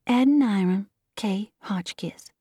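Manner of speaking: put-on young girl's toneless recitation; monotone, as if addressing the public; monotonous voice. A narrator's reading. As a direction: recite it evenly, without expression. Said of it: "she began in a monotonous voice".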